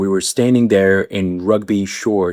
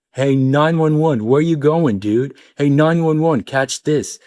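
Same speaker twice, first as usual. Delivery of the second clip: teasing teammates; 5 semitones higher than usual. Retold or imitated. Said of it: "what do they refer to me as".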